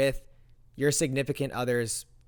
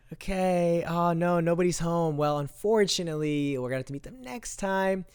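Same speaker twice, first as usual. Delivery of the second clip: level, singsong mock disappointment; feigned regret; 3 semitones higher than usual. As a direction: pretend to be sorry nobody's there. Feigns regret that nobody's home.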